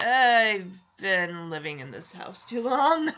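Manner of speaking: slow, tearful whine; playful fake sob over the line; mock crying. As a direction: moan it like he's about to cry. He fakes distress at hug.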